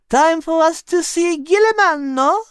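excited to set off; eager question. Acted. Liz voiced.

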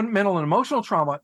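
ordinary talk, nothing marked

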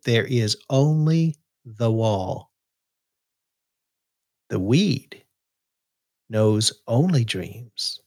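slow, deliberate poetry recital; poem reading. Acted. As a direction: read each line with weight and pauses. Reads his new poem aloud.

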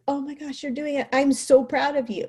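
high-pitched delighted encouragement, retold; thrilled parent cheering a child on; excited praise. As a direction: gush proudly to a child who has just managed it. Excitedly praising son in retold moment.

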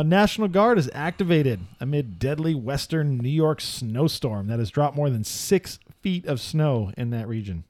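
slightly lifted headline-reading delivery; news headline read. Acted. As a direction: read out the headline, stretching the key words.

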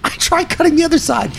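laughing through the words, voice cracking high. Real, not acted. Storyteller laughing at her own botched butchering. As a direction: push the line out while laughing.

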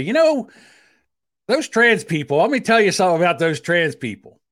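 high, loud mocking rant; mock ranting bigot. Host mocks how he doesn't talk about trans people, loud sneer. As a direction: ham it up like a ranting uncle. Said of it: "I don't just sit there every day and say".

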